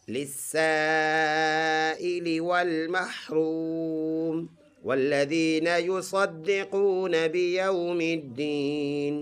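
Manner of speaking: melodic tajweed recitation; teacher models the verse in recitation; Quran recitation. Shown as a demonstration. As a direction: chant the verse smoothly.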